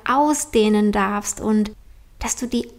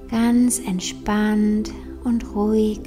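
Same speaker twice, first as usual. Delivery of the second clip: meditation voice; slower than usual. Acted. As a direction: say it gently in your voice. Repeated meditation phrase.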